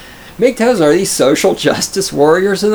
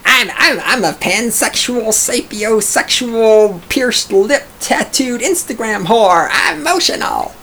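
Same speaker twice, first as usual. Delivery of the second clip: higher whiny mock voice, last line squeaking high; mocking whiny gender activist; 6 semitones higher, slower than usual. Streamer mocking gender identities, higher whiny mock voice. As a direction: whine out the list of labels. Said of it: "Gender identities".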